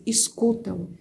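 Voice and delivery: a soft, hushed voice murmuring inside her head; barely voiced, like a thought spoken aloud; quiet inner voice. Retelling the little inner voice that told her to listen, hushed. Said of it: "veio uma vozinha na minha cabeça".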